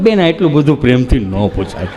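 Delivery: low put-on patient voice; low-pitched mimicked objection; patient's low reply. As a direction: murmur it low to the nurse, in character.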